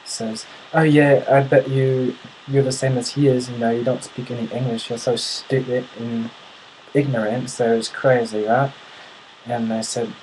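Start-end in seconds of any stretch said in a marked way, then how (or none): 0.7-8.7 put-on British accent, mildly scornful; mock British sneer; British heckler. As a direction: imitate a Brit taunting a stranger. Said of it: "the guy directs his attention to me".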